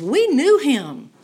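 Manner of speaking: quoting John in awe; awed retelling. Retold or imitated. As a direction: recall it with hushed wonder rising up. John looks back and says.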